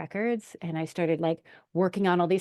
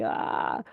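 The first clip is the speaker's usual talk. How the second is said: anxious "ah". Retold or imitated. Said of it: "my energy goes like this when I'm in anxiety".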